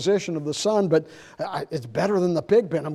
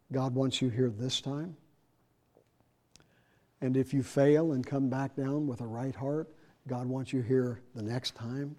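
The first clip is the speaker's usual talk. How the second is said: softer, gentle reassurance; reassuring; 4 semitones lower, 9 dB quieter than usual. Retold or imitated. Preacher quietly reassuring a member who keeps failing. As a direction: quietly assure him he is welcome.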